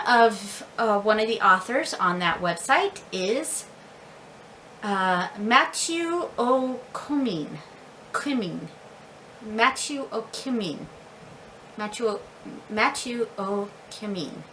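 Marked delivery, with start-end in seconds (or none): 5.4-14.4 Matthew O'Cumming slowly, ending "kuh-MEEN"; careful name attempt. Shown as a demonstration. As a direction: try out O'Cumming with stress on a long "meen". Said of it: "I hope I said that right".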